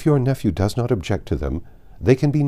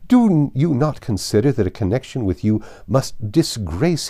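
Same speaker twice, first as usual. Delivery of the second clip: incensed; 4 dB louder than usual. Acted. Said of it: "Her ladyship was highly incensed".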